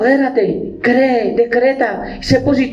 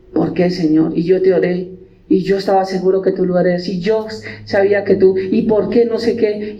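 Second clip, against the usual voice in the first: mock despairing prayer; 3 semitones lower than usual.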